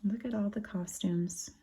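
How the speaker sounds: soft hushed aside; whisper. Real, not acted. Parent aside while reading.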